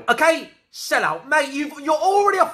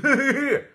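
mocking laugh; 2 semitones higher than usual. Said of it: "laughing at me going".

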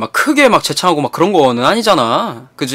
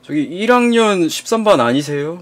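timidly polite; 5 dB quieter than usual. Retold or imitated. Cowed boy asking his classmate about his class, timidly polite. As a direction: softly imitate a cowed, deferential question. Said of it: "존댓말을 해가지고 물어봤단 말이야".

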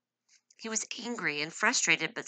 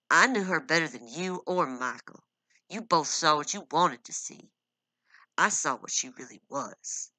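a louder, hard insistence; insistent anger; 5 dB louder than usual. Acted. Husband insisting he saw Amanda's true nature, angry. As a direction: press every word, refusing to back down.

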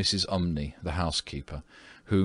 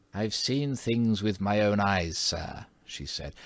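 stern warning; 2 semitones higher than usual. Acted.

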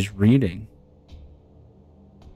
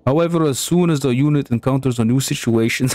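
put-on playful, half-hearted Russian accent; bad Russian accent; 2 semitones higher than usual. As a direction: try out a mock Russian accent while reading. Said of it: "a Russian accent".

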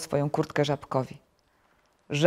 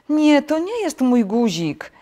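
high, loud, drawn-out wail of frustration; moaning; 10 semitones higher, 6 dB louder, slower than usual. A narrator's reading. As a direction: groan in long-suffering protest. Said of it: "jęknął Ropuch".

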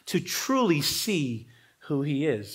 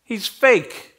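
mock-arrogant dismissal, pitched up; arrogant scoffing; 4 semitones higher than usual. Pharisees sneering at the failed healing, mock arrogant. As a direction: lightly play a scornful sceptic writing someone off. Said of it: "arrogantly pronounced".

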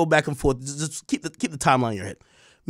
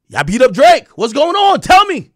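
rising to high, loud excitement; eager questioning; 8 semitones higher, 8 dB louder than usual. Retold or imitated. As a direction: demand the gossip, all worked up. Acting himself eagerly asking for news.

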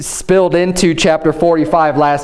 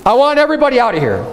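lightly acted cry, pitched up high; mildly raised, urgent calling out; 5 semitones higher, faster than usual. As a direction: call out a quick order to the room. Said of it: "He cries out so everyone could hear him".

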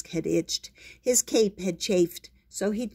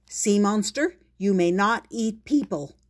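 commanding hero; 3 semitones higher, 3 dB louder than usual. Acted. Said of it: "She said".

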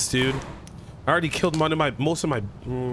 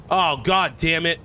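frustrated curse; 4 semitones higher, 4 dB louder, slower than usual. Real, not acted. Frustrated at wasted battery.

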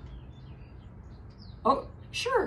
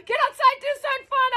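higher, raised voice over a second talker; talking louder; 9 semitones higher, much faster than usual. Real, not acted. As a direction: push the weather out over the chatter. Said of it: "I gotta talk louder than Natalie".

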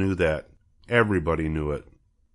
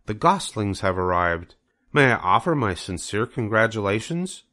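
higher, formal spider lady voice; Charlotte the spider; 4 semitones higher than usual. Acted. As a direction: announce it like a gracious spider. Charlotte makes the announcement.

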